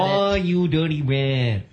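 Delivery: hammed-up cartoon gangster drawl, slow; cartoon mobster. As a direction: growl it like a Looney Tunes mobster. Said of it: "It just sounds like a cartoon".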